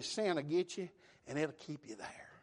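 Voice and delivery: breathy hushed warning, no voice at all; whisper. Acted. Preacher whispers a warning to the congregation about sin. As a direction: lean in and whisper the threat.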